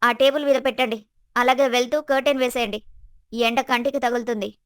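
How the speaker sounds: mildly irritated orders; understated annoyance. Acted. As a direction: order them about with a touch of irritation. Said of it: "చిరాకుతో చెప్పింది".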